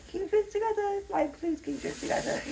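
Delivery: high, strained-sounding plea to yourself; retold self-pleading. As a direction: beg yourself to hold it together, pitched high. Pleading with herself through tears.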